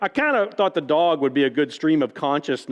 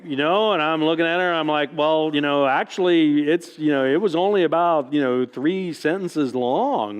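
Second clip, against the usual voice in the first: amused; 3 semitones higher than usual. Real, not acted. Amused retelling, still laughing.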